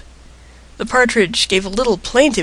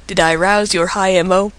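ordinary delivery

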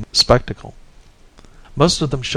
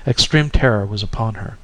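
ordinary delivery, nothing marked

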